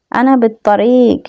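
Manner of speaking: slow, careful model phrase; slow review of আনা বিত্তরিক; slow Arabic. Shown as a demonstration. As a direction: say it slowly so they can copy. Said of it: "আমি আবারও বলে দিচ্ছি".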